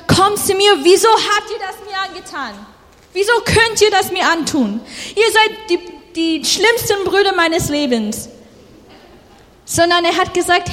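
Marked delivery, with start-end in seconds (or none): 0.1-8.3 higher, quick hurt accusation; mock reproach. Josef as he did not speak to his brothers, higher mock reproach. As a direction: throw the blame at them in a rush. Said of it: "Er hat nicht gesagt".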